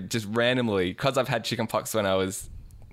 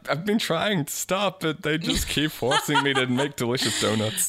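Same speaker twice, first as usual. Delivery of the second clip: wild unhinged ranting; 4 semitones higher than usual. Pretend. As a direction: whine like a trapped crazed baker. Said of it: "mad scientist baker".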